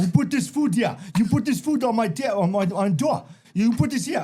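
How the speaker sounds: mock accusing neighbor. Angry neighbor voiced in story.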